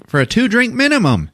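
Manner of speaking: high, chirpy waitress voice; a squeaky hammed-up server; mock waitress. Waitress insisting on the drink minimum, high and chirpy. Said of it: "She's like".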